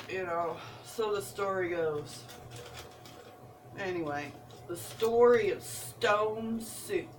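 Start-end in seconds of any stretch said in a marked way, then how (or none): 4.7-7.1 put-on slow, playful Southern storyteller accent; Southern-style storytelling, slow. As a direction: draw it out in a mock Southern accent. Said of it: "I need to stop talking like that".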